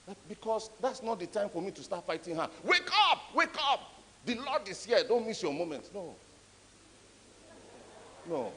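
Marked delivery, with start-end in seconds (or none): 2.6-5.9 hammed-up call to wake her for the Lord; mock wake-up call. Preacher imagining shouting the sleeping girl awake, mock rousing cry.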